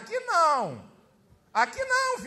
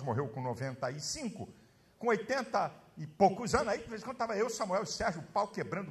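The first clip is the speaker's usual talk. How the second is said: usual speaking voice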